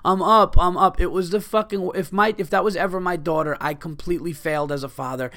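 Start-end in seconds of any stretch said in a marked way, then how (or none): 0.0-1.0 mock drunk girl, higher and louder; a touch of a drunk girl coming to; groggy girl waking. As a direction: blurt it like someone just shaken awake. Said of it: "she goes".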